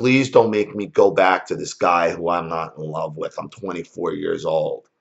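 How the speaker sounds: ordinary talk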